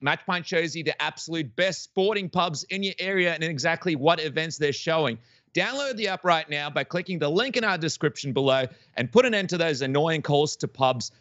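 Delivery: upbeat sales pitch, smooth and rehearsed; sponsor ad read. Acted. Podcast host reads the sponsor spot to his guests, bright ad read. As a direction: sell the app like a radio spot.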